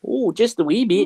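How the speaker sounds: put-on Scottish accent. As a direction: tease with a little Scottish lilt.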